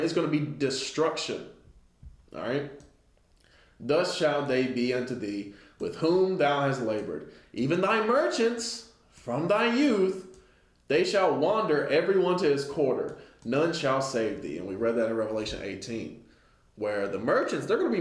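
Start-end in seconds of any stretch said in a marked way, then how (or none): 3.8-14.6 measured, solemn scripture reading; a preacher reading from the pulpit. Acted. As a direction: read the verse like a preacher, slowed. Reads scripture aloud.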